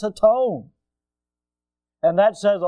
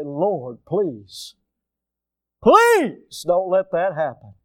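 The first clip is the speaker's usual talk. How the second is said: mock pleading prayer; much slower than usual. Imagines a woman pleading with God.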